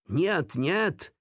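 high-pitched yelped refusal; acted prisoner's exclamation; cried-out denial. A narrator's reading. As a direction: cry out in protest, pitch leaping. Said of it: "vykřikl vězeň".

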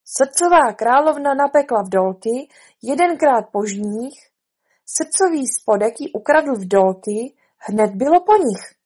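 measured, projected proclamation; reading out an indictment. Acted. Rabbit reads the charge to the court, proclaiming. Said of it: "rozvinul svitek pergamenu a četl".

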